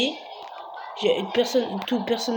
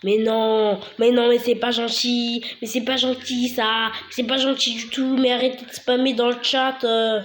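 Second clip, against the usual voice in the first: whiny protest. Real, not acted. Streamer begging chat to stop spamming, whiny protest. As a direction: draw out the vowels in sulky objection.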